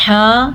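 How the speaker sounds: "ہا" from the middle of the throat; careful throat ha. Shown as a demonstration. Teacher shows where ha is made, throaty "ہا". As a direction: sound "ہا" as the Arabic pharyngeal ha. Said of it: "ہا کے تلفظ کا دھیان رکھنا ہے".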